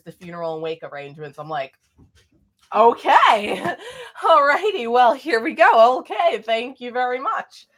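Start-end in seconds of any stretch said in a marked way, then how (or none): 2.7-7.7 high, loud flustered acceptance with a laugh; hammed-up chirpy brush-off, pitched way up; mock upbeat reaction. Acting out flustered reaction to death news.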